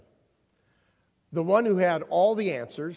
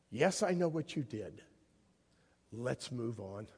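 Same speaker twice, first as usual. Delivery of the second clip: calm Peter's shame with tenderness; tender reassurance; 3 semitones lower than usual. Acted. Jesus calling Peter back after his denial, tender.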